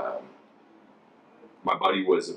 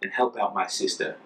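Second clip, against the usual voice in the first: higher-pitched excuse in a put-on Ghanaian accent; imitated Ghanaian excuse; 5 semitones higher than usual. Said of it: "Take the money and say".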